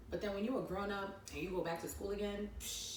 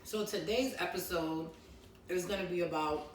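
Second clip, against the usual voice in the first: talking with food in mouth; mouth full. Real, not acted. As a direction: speak through a mouthful. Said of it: "I'm over here talking food in my mouth".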